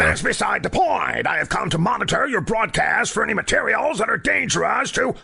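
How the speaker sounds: stern agent. Acted. Barking federal agent.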